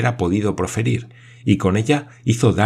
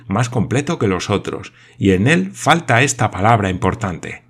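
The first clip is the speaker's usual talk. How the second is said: fast, lightly raised earnest explaining; deep conviction; 3 semitones higher than usual. Acted. Paganel to the group, quick and convinced. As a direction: explain eagerly, sure of yourself. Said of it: "con profunda convicción".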